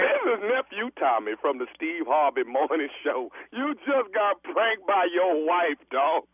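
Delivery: prank reveal. Acted.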